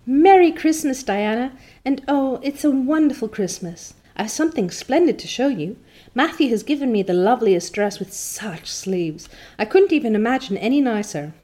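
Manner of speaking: high, loud joyful call to a friend; excited greeting. Acted. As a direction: run down the slope calling out happily. Anne greets Diana excitedly.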